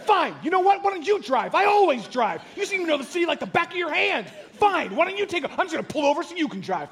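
reliving the moment he blew up in the car; retold angry outburst. Husband snapping at wife over directions, reenacted blowup. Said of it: "And I lost it".

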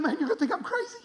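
high redneck voice, no longer yelling; redneck stranger. Retold or imitated. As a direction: imitate an earnest, worked-up redneck. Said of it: "the most redneck human being you've ever met".

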